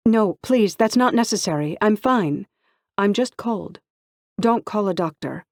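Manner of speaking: put-on girl in the bathtub begging the housekeeper not to call a doctor; pleading. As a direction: beg them not to call anyone.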